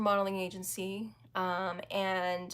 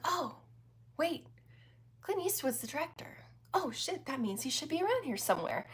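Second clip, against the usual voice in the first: panicked inner thought; 6 semitones higher, 4 dB quieter than usual. Retold or imitated. Inner panic on noticing Eastwood.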